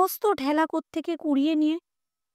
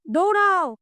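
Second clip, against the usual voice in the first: urgent run call; 5 semitones higher, 4 dB louder than usual. A narrator's reading. Son urging father to flee.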